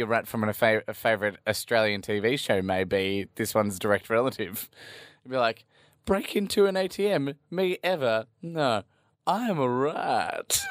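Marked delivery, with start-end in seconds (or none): 6.0-10.6 high-pitched cartoon rat act. Podcaster imitating a sneaky rat from an Australian TV show, high rat voice.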